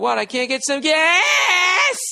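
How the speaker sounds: high, slow, outraged yell; buzzed driver yelling out the window at the cop, high and slow; drunken scream. Retold or imitated. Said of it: "Fucking screamed at him".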